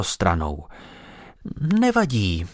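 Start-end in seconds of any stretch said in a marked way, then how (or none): 1.8-2.5 a lightly voiced try at kindness; attempted kind tone. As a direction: sound kind, but only just. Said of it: "pokusila se paní o laskavý tón". (mírný pokus o laskavý tón)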